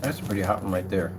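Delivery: talking through a mouthful of chips; chewing while talking; crunching chips. Real, not acted. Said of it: "Sorry for the crunching".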